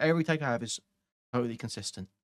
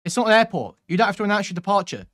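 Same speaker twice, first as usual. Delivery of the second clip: quoting Chud; 4 semitones higher, 5 dB louder than usual. Retold or imitated. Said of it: "As Chud would say".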